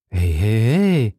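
unhurried, calm exclamation; drawn-out, unruffled interjection; composed call. A narrator's reading. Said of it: "rief Athos mit seiner gelassenen Stimme".

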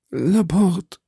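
high, strained dying call. A narrator's reading. Wounded duke calls his visitor Laporte, voice dying. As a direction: call out with failing strength. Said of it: "mit ersterbender Stimme".

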